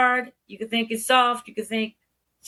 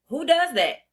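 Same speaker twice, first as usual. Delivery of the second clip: put-on higher, blunt questions to a kid; talking straight to kids; 5 semitones higher than usual. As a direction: ask it straight, like to an equal. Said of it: "That's how I talk to the kids".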